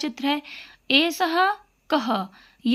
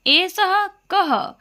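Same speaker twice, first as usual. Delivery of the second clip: slow model recitation; 7 semitones higher, 4 dB louder, much slower than usual. Shown as a demonstration. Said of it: "उसको संस्कृत में हमें बोलना सीखना है".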